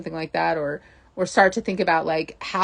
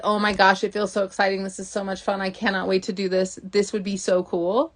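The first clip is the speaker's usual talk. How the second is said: delighted. Retold or imitated.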